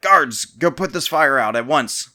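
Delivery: slow, loud commanding order. A narrator's reading. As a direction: command the guards from the throne. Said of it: "so ordered the king".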